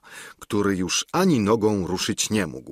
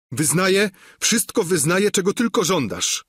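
desperate surrender; 10 semitones higher than usual. Acted. The beaten knight surrenders to Don Quixote: high, desperate plea. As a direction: give in to everything, begging. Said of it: "odpowie rycerz".

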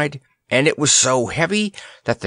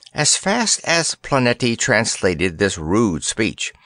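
usual speaking voice

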